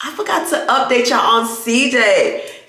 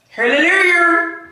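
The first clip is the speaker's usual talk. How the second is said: hallelujah; 7 semitones higher than usual. Real, not acted. Exclaiming praise.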